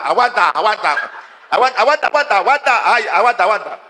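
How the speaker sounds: gritos agudos y desesperados, subiendo y bajando; gritando aguanta. Retold or imitated. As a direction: suplica a gritos que aguante. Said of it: "y a gritar". (gritando aguanta entre risas)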